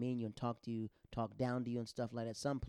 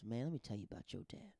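hushed confiding whisper; 5 dB quieter than usual. Retold or imitated. Airman confides to son about his dad, whispered. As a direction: lean in and whisper it like a secret.

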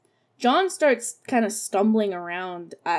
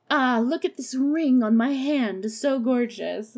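higher, cooing imitation of admiration; mock fawning; 4 semitones higher than usual. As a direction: gush over jewelry, mockingly. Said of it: "starts fawning over her jewelry".

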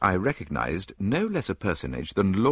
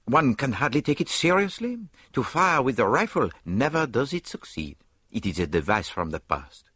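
higher, fussy Belgian detective; dismissive Poirot, higher pitched; 6 semitones higher than usual. A narrator's reading. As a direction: play the little Belgian, dismissive. Poirot's voice in read story.

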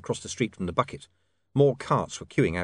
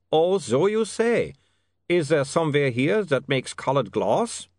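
lightly voiced vampire, testy; a hint of a put-upon Uberwald vampire; vampire accent; 7 semitones higher, 6 dB louder, slower than usual. A narrator's reading. Vampire Otto snapping at William's request, mild vampire accent.

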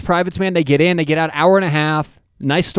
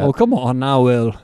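lower, badly faked North Dakota accent; 5 semitones lower than usual. Protesting to co-host, hammy North Dakota accent. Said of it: "could not make a living as an impressionist".

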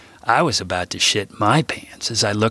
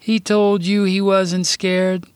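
high, slow, astonished voice; surprised question; 10 semitones higher, slower than usual. Acted. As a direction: stretch the disbelief out. Grandpa asks, child-like voice.

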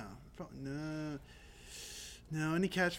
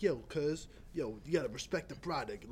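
put-on Baltimore accent; 2 semitones lower, 3 dB quieter than usual. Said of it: "he has such a good accent".

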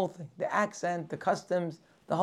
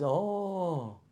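the newcomer talks himself into assimilating, growing louder; immigrant deciding to fit in; 5 dB louder than usual. Acted. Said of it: "the guy says".

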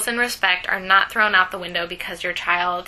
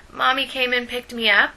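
put-on kid voice; 5 semitones higher than usual. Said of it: "my kid voice".

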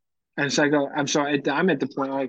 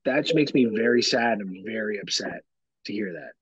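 measured parental disapproval; 2 semitones lower than usual. Retold or imitated. Retold parental response to child.

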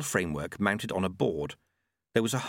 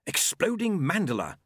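high, gleeful announcement; pleased inventor naming his toy; happy; 8 semitones higher than usual. Acted. Monk showing his new invention, happy. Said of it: "said Q happily".

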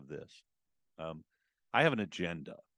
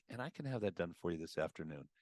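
slowed-down, lower tone; 3 dB quieter than usual. Shown as a demonstration. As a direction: ease off and settle the voice down on "this afternoon". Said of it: "I slowed down, brought my tone down".

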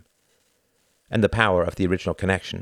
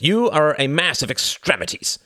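higher, louder barked order; barked command; 8 semitones higher, 5 dB louder than usual. A narrator's reading. A Nazi interrogator barks at his captive, harsh command. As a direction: snap the order like an officer. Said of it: "barked a voice".

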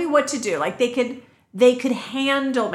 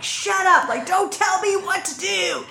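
mock raging retort; 9 semitones higher than usual. Telling off an imagined British husband, with a laughing mock yell. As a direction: play-act a half-laughing outburst.

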